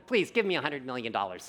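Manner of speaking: small young voice, lightly put on; young-sounding voice. Shown as a demonstration. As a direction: demonstrate a too-young voice. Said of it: "it sounds really young".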